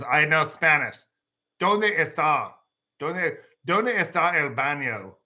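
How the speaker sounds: stiff tourist Spanish, slow and careful; textbook Spanish. Retold or imitated. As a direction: ask for the bathroom like a classroom learner. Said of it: "you can't talk to them like that".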